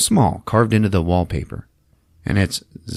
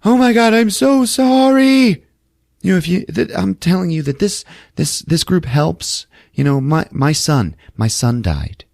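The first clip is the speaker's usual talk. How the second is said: much higher, louder mock gushing sympathy; gushing old lady; 11 semitones higher, 4 dB louder than usual. Joan voiced, over-the-top sympathy.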